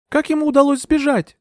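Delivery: put-on high young woman's voice, faltering; a dazed young lady explaining; young heroine. A narrator's reading. Euphemia explains herself to Bertram, high and faltering.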